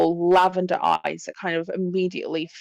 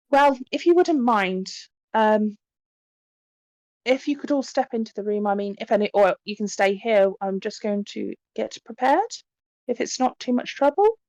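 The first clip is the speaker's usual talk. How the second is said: lightly voiced tentative young medium, raised pitch; a hint of an apologetic hostess; polite, hesitant medium; 3 semitones higher than usual. Medium asking guests a favour, lightly hesitant and polite.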